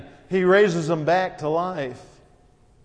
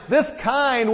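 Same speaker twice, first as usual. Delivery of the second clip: emphatic; 5 semitones higher than usual. Real, not acted. Preacher's peak emphasis.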